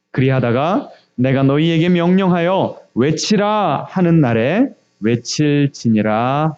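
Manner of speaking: slow, measured recitation of a Bible verse; scripture reading. Acted. Leading the congregation in reading Joshua, slow measured recitation. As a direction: read it out solemnly, drawing out the phrase endings. Reads the Bible passage aloud.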